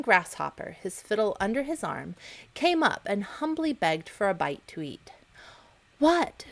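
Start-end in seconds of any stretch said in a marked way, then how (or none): 6.0-6.5 sharp, high, louder startled "What?"; surprised cry. Acted. The ants hear the grasshopper begging, surprised and high. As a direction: gasp out the question in shock. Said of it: "cried the ants in surprise".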